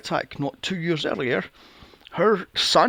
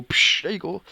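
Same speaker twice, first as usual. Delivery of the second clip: a hint of a louder offhand crew guy; mock stagehand splash; 3 semitones higher, 4 dB louder than usual. Imagining a crew member dousing the actor. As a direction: toss it off casually. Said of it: "grab a bucket and go".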